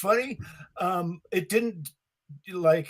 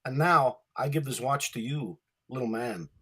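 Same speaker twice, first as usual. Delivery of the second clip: Walken monologue. Retold or imitated. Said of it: "No, I'm not doing Christopher Walken".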